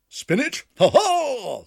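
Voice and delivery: high, loud squawking cry; magpie doctor. A narrator's reading. Doctor Maggotty answering Ribby, squawking. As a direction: squawk like a bird. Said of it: "said he".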